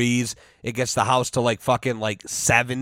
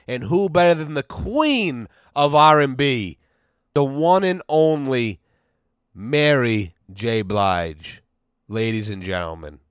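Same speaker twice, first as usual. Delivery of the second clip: announcer introduction. Pretend. Host introduces the queen of R and B, announcer style. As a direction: show host's build-up, slowing on the name.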